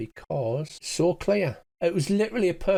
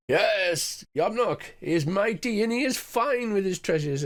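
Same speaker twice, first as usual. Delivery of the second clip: higher, pompous goblin boasting; proud goblin chief; 7 semitones higher than usual. Acted. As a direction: hold up the bracelet and gloat like a goblin king. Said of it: "he holds it up and he's like".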